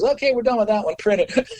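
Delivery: high-pitched, laugh-edged verdict; brisk sign-off, imitated. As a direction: imitate a producer happily wrapping it up. Producer's quick sign-off, acted out.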